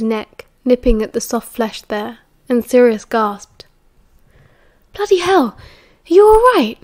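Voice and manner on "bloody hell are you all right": high-pitched, astonished exclamation; shocked and concerned, pitch leaping up; startled. A narrator's reading. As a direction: blurt it out, taken aback. Gasping after a sudden kiss.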